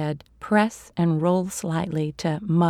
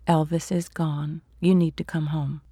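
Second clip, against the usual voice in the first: resigned and defeated. Acted. Sam confirming the death to his sister, understated defeated tone. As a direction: say it like there is no fight left. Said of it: "a resigned and defeated".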